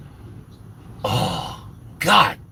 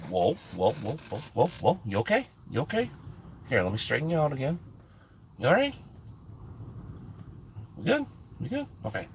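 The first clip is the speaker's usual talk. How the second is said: much softer, gentle whoa-whoa; real quiet check-in; 10 dB quieter, much faster than usual. Real, not acted. Checking on the laughing woman who fell over, softly. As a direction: soothe her quietly, half off-mic.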